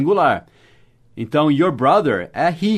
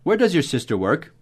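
early peak, then "work" turns upward; English question intonation. Shown as a demonstration. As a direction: show the English tune, lifting "work". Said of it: "Essa entonação que a gente usa em inglês".

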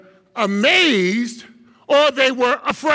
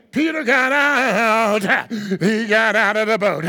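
hooping preacher; 3 semitones lower than usual. Shown as a demonstration. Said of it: "Hooping is like singing the message".

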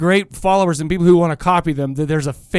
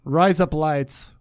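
slow, lower mock Australian; Australian accent; 3 semitones lower, 4 dB quieter, much slower than usual. Shown as a demonstration. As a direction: copy the Australian vowels, drawn out. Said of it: "in Australian".

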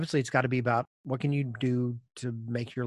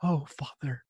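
put-on higher, prim and formal child voice; overly polite kid; 6 semitones higher, 3 dB louder than usual. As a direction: ask like a posh little boy. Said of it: "he says".

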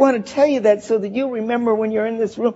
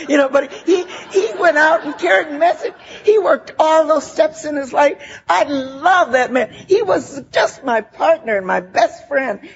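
real tears breaking through a laugh; tearful; 5 semitones higher than usual. Real, not acted. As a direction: voice catching as she remembers him. Tearful memory of late husband.

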